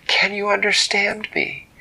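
high, loud hopeful call; eager question. Acted. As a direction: shout down to the water. Dak calls to mermaid.

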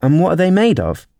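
high-pitched eager question; very curious. A narrator's reading. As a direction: ask with lightly played curiosity. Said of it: "in a tone of great curiosity".

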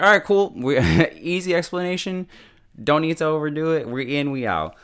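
high, loud, breezy and offhand; breezy hacker girl. Retold or imitated. May shrugging off the hack, high and breezy. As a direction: toss it off like hacking is nothing. Voicing May hacking casually.

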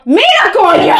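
playful exclamation dissolving into a laugh; laughing mock outburst. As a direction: throw it out half laughing.

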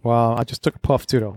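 talking around a cigar; cigar in mouth. Real, not acted. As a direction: speak with a cigar between the lips. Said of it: "I just still had some cigar in my mouth".

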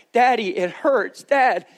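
put-on high pleading child voice. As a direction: beg like a hurting little boy. Father voicing crying son in story.

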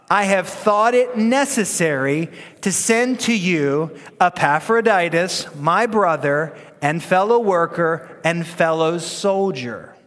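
put-on slow, deliberate read-aloud with the kids; measured congregational recitation; slow group reading. Shown as a demonstration. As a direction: lead the room reading scripture together, slowly. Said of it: "Ready? One, two, three, go".

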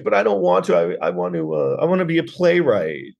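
high, mock-pleading whine; whining movie son. Mocking the rich son who wants to write plays, high whine. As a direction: protest like a put-upon son, pitched high. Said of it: "And he's like".

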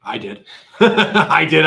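sheepish laughing admission. Real, not acted. Laughs admitting blame.

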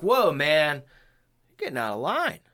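lightly voiced laid-back seventies dude; calm someone down like a seventies hippie; mellow seventies guy. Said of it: "people would be like".

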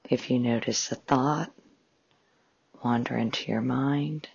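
measured meditation guide with long pauses; guided meditation. Acted. Host guiding listeners through a breathing exercise, calm meditation voice. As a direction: calmly guide listeners into relaxation, phrase by phrase.

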